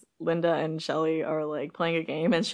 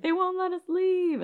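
panicked plea; 13 semitones higher, slower than usual. Retold or imitated. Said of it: "and she's like".

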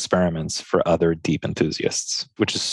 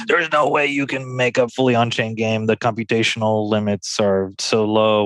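goblin voice. Retold or imitated. Guest mimicking naysayers yelling at them, light goblin voice. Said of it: "There's your goblin voice again".

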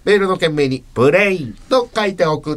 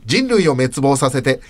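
gag reading; 7 semitones higher, slower than usual. Acted.

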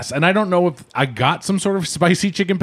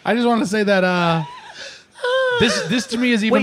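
earnest choked-up; 9 semitones higher than usual. Real, not acted. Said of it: "It was too earnest".

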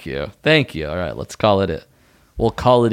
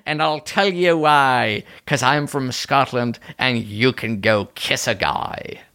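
higher-pitched Scottish bartender; put-on Scottish lilt, pitched up; Scottish accent; 4 semitones higher than usual. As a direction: lay down the law as a Scottish barman. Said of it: "get you to do a Scottish accent".

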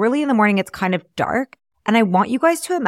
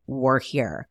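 much softer, lower, stunned; awed hush; 7 semitones lower, 8 dB quieter than usual. Retold or imitated. Arriving at the prison in the dark, a hushed awed murmur. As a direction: let it drop out in awe. First sight of prison razor wire.

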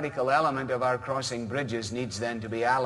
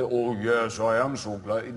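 pious witnessing voice; 3 semitones lower than usual. Retold or imitated. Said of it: "go back into the".

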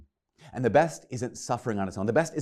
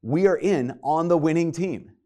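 thrilled apostles; 6 semitones higher, 5 dB louder than usual. Retold or imitated. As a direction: imitate amazed disciples, higher and louder.

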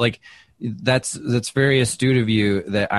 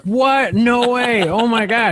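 high, louder disbelieving gasp of words; starstruck surprise; 14 semitones higher, 5 dB louder, slower than usual. Retold or imitated. Comic recalling his shock on the train, high startled squeal.

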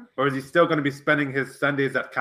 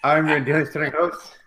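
announcer. Acted. Show intro announcement.

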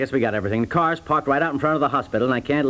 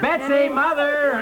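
slow, high drawn-out call across the yard; hollering for Betsy and Mother; yelling for family; 11 semitones higher, much slower than usual. Acted. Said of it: "Now, don't yell".

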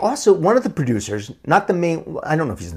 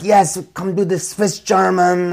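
put-on slight Swiss German accent; 4 semitones higher, slower than usual. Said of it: "I did it with a slight Swiss German accent".

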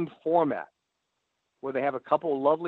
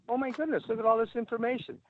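mock amazement; 6 semitones higher, 4 dB quieter, faster than usual. Mock discovery of search results.

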